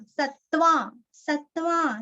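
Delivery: सत्वा with half t and a full वा; सत्वा, half त then full वा. Shown as a demonstration. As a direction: split सत्वा as sat-vaa. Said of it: "दो आधे आधे त, वा पूरा".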